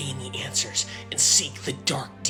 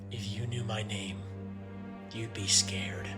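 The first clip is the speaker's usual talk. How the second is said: brooding whisper; 2 semitones lower, 6 dB quieter than usual. Acted. Edgy dark character intro.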